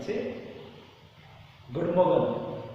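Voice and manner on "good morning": "Good morning" said as "good mogen", supposedly French; French accent. Shown as a demonstration. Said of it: "Can you pronounce?".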